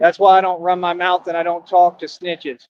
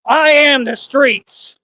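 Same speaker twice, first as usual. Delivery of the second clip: higher, louder, slow street-rapper declaration; rapper impression; 8 semitones higher, 5 dB louder, much slower than usual. Telling the haters who he is, as a famous rapper. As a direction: drag it out big like a rap legend. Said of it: "Like D M X".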